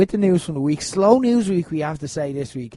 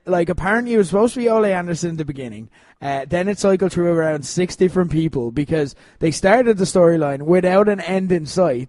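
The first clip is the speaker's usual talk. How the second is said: ordinary delivery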